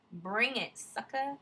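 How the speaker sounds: loud, defiant taunt; defiant challenge. Acted. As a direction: throw the challenge at the wolf. Acting out Atreyu facing Mork.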